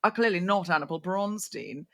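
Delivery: lightly voiced formal butler; hint of a British butler addressing a guest; Downton Abbey butler. Waiter challenging Samantha at Soho House, mock butler. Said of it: "like he's a butler in Downton Abbey".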